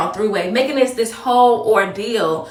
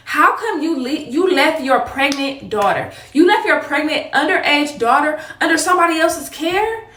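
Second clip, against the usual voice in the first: higher-pitched indignant telling-off; retold scolding; 5 semitones higher than usual. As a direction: replay chewing out your mom. Scolding mother on the phone.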